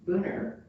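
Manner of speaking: Booner said the locals' way, BOO-ner, with an R sound at the end; local pronunciation. Retold or imitated. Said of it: "the people who live here forever call it".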